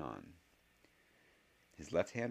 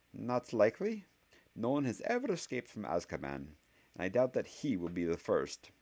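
firm, higher, louder schoolmistress; firm witch; 5 semitones higher, 3 dB louder than usual. A narrator's reading. Professor dismissing the escape idea, firm and louder. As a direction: state it with flat certainty, louder.

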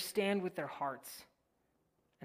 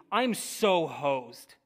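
casual paraphrase; 6 dB louder, much slower than usual. Acted. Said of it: "a better translation would be".

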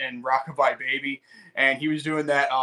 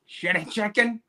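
put-on higher Asian-accented echo of an order; mock Asian accent, pitched up; caricatured Asian accent; 5 semitones higher than usual. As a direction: imitate an Asian-accented server repeating it. Accented echo in restaurant bit.

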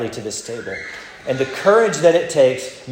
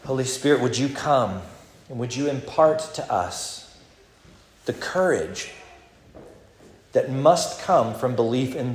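prayer; 3 semitones lower than usual. Acted. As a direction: pray it humbly, letting it settle. Leads closing prayer.

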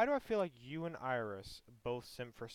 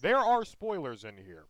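radio voice. Pretend. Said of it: "I must use my radio voice".

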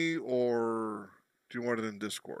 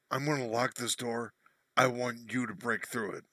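choppy, glitchy robotic voice. Real, not acted. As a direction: talk like a bad connection turned robotic. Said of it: "you sound like a robot".

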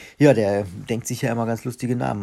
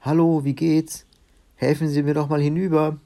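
calling across; 6 semitones higher, 6 dB louder than usual. A narrator's reading. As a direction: holler over to the other side of a swamp. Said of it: "rief ... eine Stimme herüber". (laut und hoch herüberrufend)

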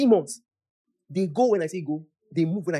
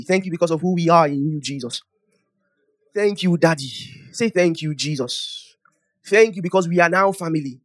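leading prayer; 4 dB louder than usual. Real, not acted. Preacher thanking the Father for family, measured congregational prayer. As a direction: lead them in thanks, phrase by phrase.

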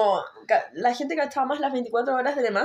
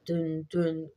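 mimicking a dull repetitive beat; imitated beat; 7 semitones lower, 7 dB quieter than usual. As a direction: mouth the thumping bass low. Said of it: "era el". (imita el bajo repetitivo)

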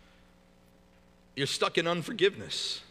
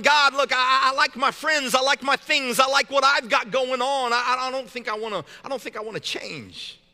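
higher-pitched bargaining with God; stammering, pitched-up reluctance; pleading excuse; 5 semitones higher, 4 dB louder than usual. Acted. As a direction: make your case insistently, then ease off at the end. Pleading with God to stay comfortable.

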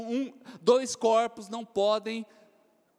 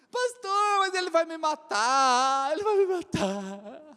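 mock frightened girl; 4 semitones higher, 3 dB louder, slower than usual. Teen girl fears her father.

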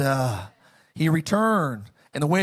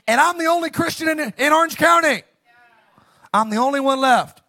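agitated complaint; 5 semitones higher than usual. Acted. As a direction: pour out the grievances, getting worked up. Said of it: "He's having a low moment".

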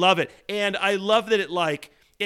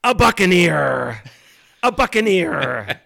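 lightly voiced pirate punchline; loud, slow pirate delivery; 6 dB louder, slower than usual. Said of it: "the full pirate voice".

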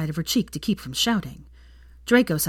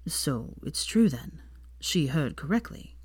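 weakly; 6 dB quieter, slower than usual. Acted. Draco weakly asks Hermione about the rumour, softer and pained. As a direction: ask it with a pained wince. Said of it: "asked weakly".

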